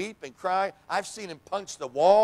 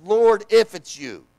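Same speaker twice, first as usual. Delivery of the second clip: loud, slow Lord if it's you; loud plea; 4 semitones higher, 11 dB louder than usual. Retold or imitated. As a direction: push it out as an anxious plea. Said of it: "And Peter says".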